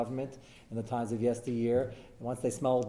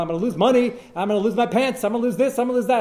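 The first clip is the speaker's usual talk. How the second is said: higher, louder mock panicked yelling; retold yelling; 9 semitones higher, 8 dB louder than usual. Builder panicking over the stop work order, mock yelled. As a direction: wail about losing everything, hammed up. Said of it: "So the guy's screaming, yelling".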